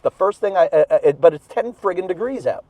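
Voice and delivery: panting between words after cold outdoors; out of breath. Real, not acted. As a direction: talk while still catching breath. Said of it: "I'm panting, I'm out of breath".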